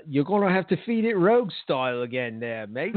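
put-on light English accent, laughing through it; a touch of English accent, mate; mock English accent, half laughing. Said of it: "he says in his English accent".

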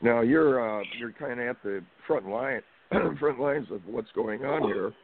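hoarse, losing his voice; raspy, voice giving out. Real, not acted. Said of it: "Sorry, I'm losing my voice".

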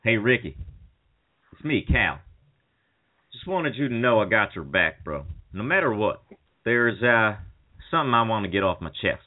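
hammed-up Cal Naughton speech to Ricky; Cal Naughton impression. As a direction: play Cal pleading over his buddy in the hospital. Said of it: "this is her Cal Naughton".

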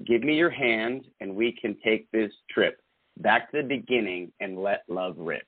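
recited verse, measured and rhythmic; poem reading. Acted. Reading her poem aloud to her friend, measured and rhythmic. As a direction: read the poem like spoken word. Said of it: "called Undertow".

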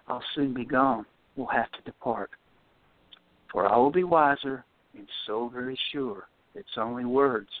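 measured, earnest reading of his own lines; poem reading. Acted. Caller reading a poem aloud on the radio, earnest recital. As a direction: let each rhymed line land, then pause.

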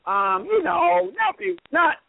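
high, halting, unsure voice; meek hesitant contestant. Retold or imitated. Artis hedging to Jeff at tribal council, high and unsure. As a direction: squirm through the answer. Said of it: "Artis goes".

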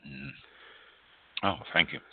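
recovering from choking; hoarse after a wrong swallow; choking on a drink. Real, not acted. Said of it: "went down the wrong pipe".

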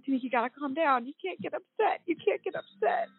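holding back real sobs while quoting mom; crying. Real, not acted. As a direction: voice rising and breaking into tears. Retelling mom's words while crying.

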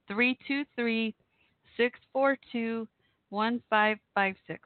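slow, each digit spaced for writing down; spelling out a phone number slowly for a voicemail; slow dictation. Shown as a demonstration. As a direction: read the number out slowly so it can be copied. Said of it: "I'll say it again".

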